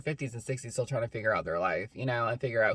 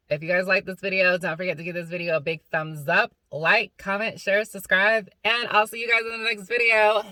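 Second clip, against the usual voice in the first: higher, brighter sign-off pitch; upbeat outro; 4 semitones higher, 3 dB louder than usual. Acted. Signing off to viewers, upbeat outro. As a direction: pump up the subscribe pitch.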